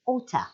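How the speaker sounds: "Oughta" said alone, clipped and linked; reduced oughta. Shown as a demonstration. Teacher isolating the word for learners. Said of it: "Notice oughta".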